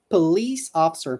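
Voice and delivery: police officer, stress on li; model pronunciation. Shown as a demonstration. Teacher modeling police officer for students. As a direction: say "police" with stress on the middle syllable, pəLIS. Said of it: "Pronunciation here".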